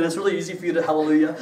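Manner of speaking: wry laughing aside. Retold or imitated. Retold sarcastic thought.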